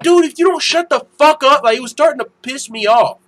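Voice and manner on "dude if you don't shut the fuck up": retold angry warning. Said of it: "I was like".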